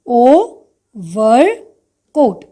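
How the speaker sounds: OVERCOAT split as O, ver, coat with pauses; broken into syllables. Shown as a demonstration. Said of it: "So the breakup comes".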